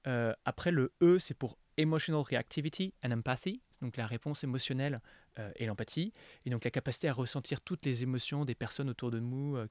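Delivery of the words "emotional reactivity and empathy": English phrase in a French accent. Real, not acted. Interviewer explaining the acronym's E, French-accented English. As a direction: lay out the English term with French vowels and rhythm. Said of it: "mon accent anglais, euh, va rentrer en, en scène".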